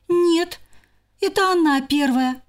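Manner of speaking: high insistent squirrel; blaming back. Acted. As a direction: throw the blame back.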